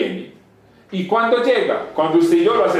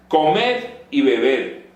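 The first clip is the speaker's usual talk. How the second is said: Comed y bebed, slowly, word by word; drawn-out emphasis; much slower than usual. Shown as a demonstration. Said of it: "repeats key phrase slowly".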